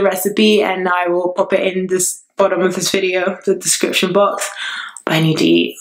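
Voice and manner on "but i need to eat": low whispered aside. Real, not acted. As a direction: whisper it to yourself, eager. Turning to her food.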